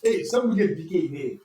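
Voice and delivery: laughing while talking. Real, not acted. Guesser laughing, asking the quizmaster to continue.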